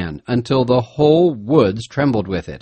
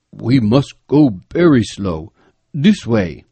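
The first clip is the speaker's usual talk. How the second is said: guide's hushed caution; 4 dB louder, slower than usual. A narrator's reading. Guide urging caution on the hunt.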